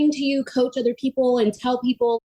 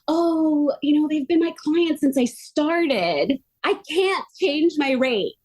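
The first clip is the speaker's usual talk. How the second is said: higher and slower, a hint of a reluctant therapist; mimicking a hesitant friend; 6 semitones higher, slower than usual. Retelling a massage friend refusing to raise rates, mildly mimicked whiny. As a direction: lightly act out the nervous excuse.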